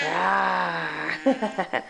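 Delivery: mock lion growl for the baby; playful lion rawr. Parent answering the lion question, mock growl. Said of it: "What does a lion say?".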